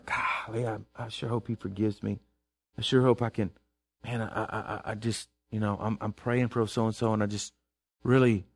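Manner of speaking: low, soft, hesitant mock prayer; timid fretful prayer. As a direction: fumble through a nervous prayer under the breath. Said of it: "you wouldn't be talking like that to the Lord".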